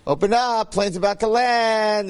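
sing-song airplane feeding voice, slowed; airplane spoon game. Retold or imitated. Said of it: "you know how they do with the plane".

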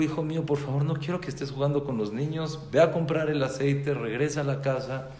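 retold parental instructions, pressed along; urging father. Father instructs son in story.

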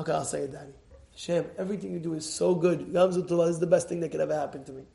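low, soft and gentle. Retold or imitated. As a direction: say it softly like a calmed child. Daughter accepting quietly.

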